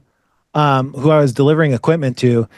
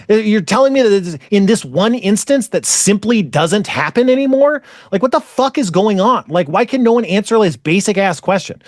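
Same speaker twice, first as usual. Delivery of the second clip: higher-pitched, exasperated questioning; incredulous rant; 4 semitones higher than usual. Retold or imitated. Speaker challenges staff over a basic question, incredulous. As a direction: demand an answer, baffled and fed up.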